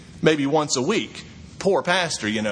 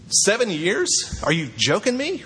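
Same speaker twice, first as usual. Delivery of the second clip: incredulous; 3 semitones higher than usual. Acted. Preacher mocks Jacob's deal.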